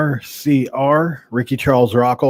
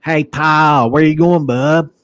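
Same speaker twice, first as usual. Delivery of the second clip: higher, louder dad voice calling out; dad's voice; 4 semitones higher, 5 dB louder, slower than usual. Retold or imitated. Son imitating dad calling him bub, louder. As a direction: hail him like dad at the door. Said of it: "That's how my dad would talk".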